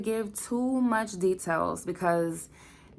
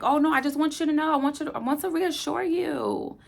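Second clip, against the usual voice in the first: quoting the doctor; 7 semitones higher, 4 dB louder than usual. Retold or imitated. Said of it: "they was just like".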